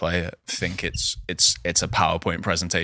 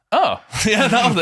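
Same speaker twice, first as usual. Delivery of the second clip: relieved; 13 semitones higher, 4 dB louder than usual. Retold or imitated. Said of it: "and you went".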